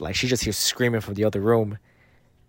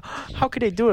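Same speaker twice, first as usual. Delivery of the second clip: much higher, hammed-up dismay; mock shocked girlfriend; 12 semitones higher than usual. Mocking his girlfriend's reaction to the documentary, much higher mock dismay. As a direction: play her fake outrage at the plot. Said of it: "she's over here like".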